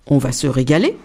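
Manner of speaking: low, gruff papa rabbit; a father rabbit sounding big and hungry. A narrator's reading. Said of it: "de sa grosse voix de lapin".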